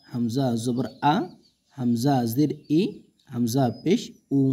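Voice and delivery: আ, ই, উ said short and fast with no stretching; quick harakat reading. Shown as a demonstration. Teacher reading the harakat quickly for students, short and fast. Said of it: "হরকতের উচ্চারণ তাড়াতাড়ি করতে হয়।".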